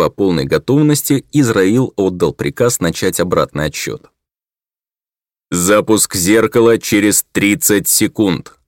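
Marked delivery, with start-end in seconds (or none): 5.5-8.6 slow, clipped machine announcement; sharp metallic voice. Acted. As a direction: announce it like a cold computer. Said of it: "раздался резкий металлический голос".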